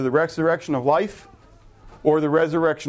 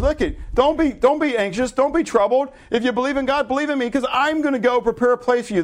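much higher, earnest plea not to worry; reassuring Jesus; 9 semitones higher than usual. Acted. Jesus calming anxious followers, high and pleading. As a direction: lift the voice high and urge them gently.

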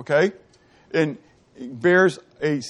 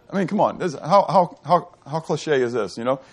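laughing at the irony. Real, not acted. Amused at the biblical irony.

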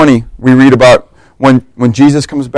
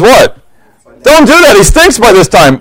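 shocked crowd; 7 semitones higher than usual. Retold or imitated.

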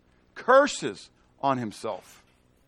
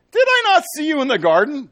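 high, loud challenge to Peter; accusing shout; 13 semitones higher, 10 dB louder than usual. Acted. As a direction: call him out across the courtyard.

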